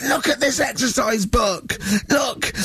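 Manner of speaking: high, slow, sing-song exclaiming; hammed-up outraged teacher. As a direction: wave the book and wail at the class. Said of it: "picked up an exercise book and said".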